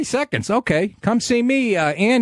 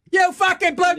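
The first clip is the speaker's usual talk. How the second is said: high, hammed-up incredulous repeat; imitating a stunned mobster, pitched way up; mock disbelief. Host re-enacting Christopher's shocked reaction, mock disbelief.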